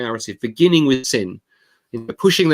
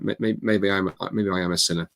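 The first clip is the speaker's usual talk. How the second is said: low, soft, halting admission; reluctant mumble; 4 semitones lower, 5 dB quieter than usual. Retold or imitated. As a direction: imitate someone grudgingly owning up under their breath. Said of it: "a bit loud, I didn't hear that".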